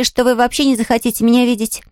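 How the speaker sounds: put-on high child's voice, frankly reporting; candid little girl. Girl repeating a warning to the invalid, candid.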